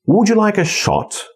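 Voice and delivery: high melody, "like" and "shot" stressed, falling end. Shown as a demonstration. Teacher modelling a longer pattern, stress on like and shot. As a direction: glide over "Would you", hit "like" and "shot". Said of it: "Nieakcentowana, nieakcentowana, akcentowana, nieakcentowana, akcentowana".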